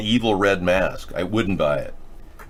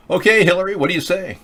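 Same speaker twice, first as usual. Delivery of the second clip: prissy high put-on Hillary; Hillary impression; 10 semitones higher than usual. Host starting his Hillary impersonation, much higher mock voice. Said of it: "impersonation of Hillary".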